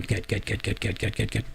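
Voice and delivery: "get" repeated evenly with a short e, low and soft; practising "get". Retold or imitated. Host rehearsing away his accent, repeated quiet get. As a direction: drill "get" under your breath, rhyming with bet. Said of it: "So I would just walk around going".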